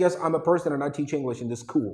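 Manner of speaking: teacher's model English accent on "I teach English in this school"; "real" English accent. Shown as a demonstration. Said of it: "this is the real accent".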